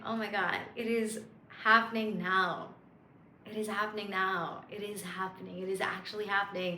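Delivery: soft, awed, relieved; felt affirmation. Shown as a demonstration. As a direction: feel it while you say it. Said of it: "to be like".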